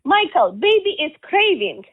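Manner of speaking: lines said again in a thick Slavic accent; character's Slavic accent, pleading; strong Slavic accent. Shown as a demonstration. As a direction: lean into the heavy Slavic accent. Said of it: "I'm gonna say it again with the accent".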